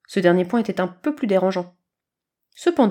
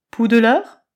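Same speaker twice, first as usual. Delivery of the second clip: meowing kitten; 2 semitones higher, 6 dB louder than usual. A narrator's reading. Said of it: "miaula Chaton".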